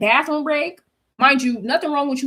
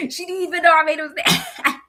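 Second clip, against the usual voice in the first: higher, laughing through the words; laughing disbelief; 7 semitones higher than usual. Real, not acted. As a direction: giggle it out in disbelief. Laughing at the surprise.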